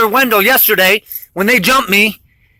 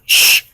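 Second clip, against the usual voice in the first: imitated shush. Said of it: "you can hear the officers always saying".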